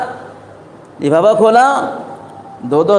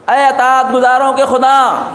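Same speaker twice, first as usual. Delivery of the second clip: a slow, raised call to God, pitched higher; Moses calling out; 4 semitones higher than usual. Acted. Moses on Mount Tur calls out to God, slow and raised. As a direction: call upward to the heavens, drawn out. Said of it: "آواز دی".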